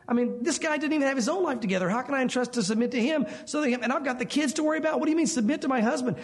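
a mock wife objecting to submitting; exasperated wife. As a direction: play a fed-up wife venting, voice up. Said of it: "maybe you're saying".

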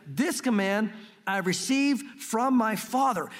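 very slow, emphatic Bible reading; scripture reading. Acted. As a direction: proclaim the verse slowly, weighting each phrase. Reads scripture aloud.

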